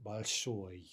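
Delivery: "большой" stressed on final -ой; stress on the ending. Shown as a demonstration. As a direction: put the weight on the -ой of "большой". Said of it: "stress on the ending".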